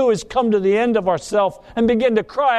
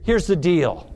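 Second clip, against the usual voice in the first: tempting Baal; 3 semitones lower than usual. Retold or imitated. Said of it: "Then Baal says".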